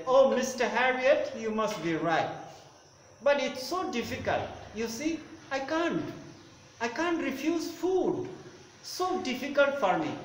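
lightly voiced fretting lady; pleading lady. Owner begs the vet, mild plaintive pleading. Teacher voices Mrs Pumphrey.

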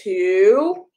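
bright, sing-song picture book reading; reading to a child. Acted. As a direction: read it like bedtime story time for a toddler.

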